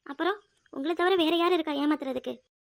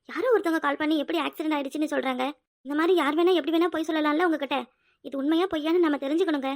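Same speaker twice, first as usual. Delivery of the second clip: louder, pressing; insistent arguing; 4 dB louder than usual. Acted. Wife insisting husband verify the accident call. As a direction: press him hard to check.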